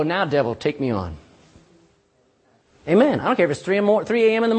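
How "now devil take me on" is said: defiant challenge. Retold or imitated. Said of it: "get up and go".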